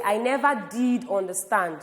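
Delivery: "did" pushed out firmly; emphatic stress on did. Shown as a demonstration. Teacher showing she really didn't understand, stressing did. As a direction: put the weight on "did". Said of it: "if I want to emphasize this further".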